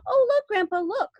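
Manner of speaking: put-on high excited child; cried. A narrator's reading. Charlie calling Grandpa to look, high and eager. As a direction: point and squeal with wonder. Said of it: "cried Charlie".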